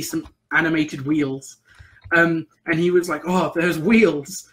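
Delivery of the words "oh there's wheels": lightly voiced dim orc, drawn out; a hint of a slow, simple-minded orc; slow-witted orc. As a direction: impersonate a slow-witted player character, slowly. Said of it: "in this really stupid manner".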